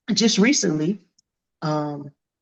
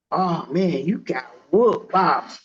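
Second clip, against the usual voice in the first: mock taunt; 4 dB louder, slower than usual. Imagined critics mocking the boxer, hammed-up jeer. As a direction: tease like a heckler, drawing out old lady. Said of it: "If I beat her".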